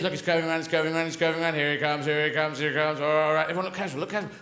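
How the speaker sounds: a touch of furtive anticipation; conspiring greyhound. Acted. Dogs watch the rabbit return.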